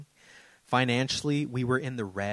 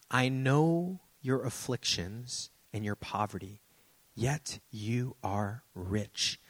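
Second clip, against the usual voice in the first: measured, solemn reading of the passage; scripture reading; 2 semitones lower than usual. Acted. Pastor reading Revelation to the congregation, solemn and measured.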